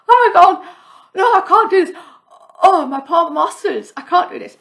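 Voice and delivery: overwhelmed and giggling at yourself; on the yoga mat, giggling helplessly in mock despair; laughing despair.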